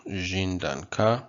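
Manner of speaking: "danka" said slowly, stressed on the final "ka"; slow teaching demo, stressing the end of "danka"; final-syllable stress. Shown as a demonstration. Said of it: "stress is on the final syllable".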